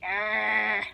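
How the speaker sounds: low, drawn-out imitated snarl; Pennywise snarl. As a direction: mimic a monster's long "arr". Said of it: "Pennywise going like this".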